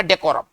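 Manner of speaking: डेकोरम said "de-KO-ram"; long o in the middle of डेकोरम; teacher reads out डेकोरम as "de-ko-ram"; pronunciation model of डेकोरम. Shown as a demonstration. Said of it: "इसको पढ़ेंगे".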